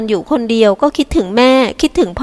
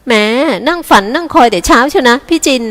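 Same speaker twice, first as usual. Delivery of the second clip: higher, mocking sing-song jab; sarcastic teasing; 4 semitones higher than usual. Younger sister teasing Jin about waiting all morning, sarcastic. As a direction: needle her big sister sweetly. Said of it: "พูดจาประชดประชัน".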